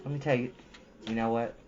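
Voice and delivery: usual speaking voice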